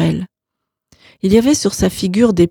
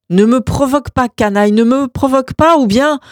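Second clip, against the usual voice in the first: furious threat; 6 semitones higher than usual. Acted. Juan warning his brother not to provoke him, furious. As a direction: warn him, barely holding back.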